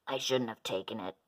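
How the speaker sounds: low, subdued admission; regretful. A narrator's reading. Minosaur confessing to the other dinos, regretful. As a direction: say it low, owning up. Admitting fault, shaking his head.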